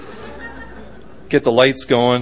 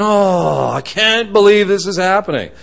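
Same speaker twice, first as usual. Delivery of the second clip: mock exasperation, pitched up; worked up; 3 semitones higher than usual. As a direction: whine in hammed-up disbelief. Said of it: "you get all worked up".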